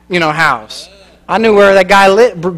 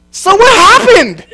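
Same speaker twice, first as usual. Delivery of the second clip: higher, louder, slow, laughing; laughing question; 13 semitones higher, 7 dB louder, slower than usual. Retold or imitated. Preacher asking the laughing man what happened, laughing. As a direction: ask it while still laughing.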